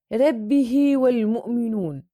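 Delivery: long ii joining "ربه" to the next word; madd silah sughra. Shown as a demonstration. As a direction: lengthen the final "hi" of "ربه" into hii. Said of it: "صلة صغرى".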